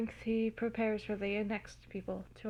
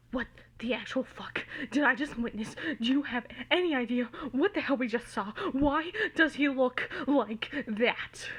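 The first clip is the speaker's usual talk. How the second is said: a mild panic rising from a whisper to a near yell; panicked; 2 semitones higher, 3 dB louder than usual. Acted. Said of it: "His voice is panicked".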